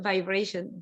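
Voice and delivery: ordinary talk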